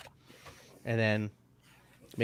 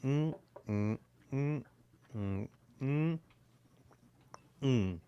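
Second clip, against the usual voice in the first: quiet mm sounds while swishing whiskey in the mouth; soft swishing hum; 3 semitones higher, 6 dB quieter, slower than usual. Shown as a demonstration. Showing the host how to swish whiskey, soft mouth-closed hums. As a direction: hum softly as the sip rolls around. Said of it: "what you do is".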